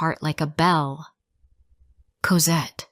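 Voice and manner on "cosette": stunned breathy whisper. A narrator's reading. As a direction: breathe the name in shock. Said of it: "he whispered".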